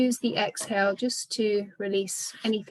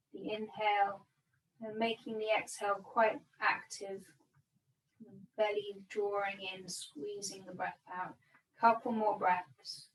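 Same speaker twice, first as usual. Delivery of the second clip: calm, unhurried meditation guidance with long pauses; measured yoga-teacher breathing cues; guided meditation. Real, not acted. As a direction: guide them gently into body and breath, leaving space between phrases. Guides breath and body awareness.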